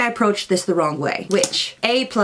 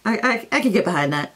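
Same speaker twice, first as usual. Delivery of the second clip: nervous laugh; faster than usual. Retold or imitated. Nervous laugh after crisis.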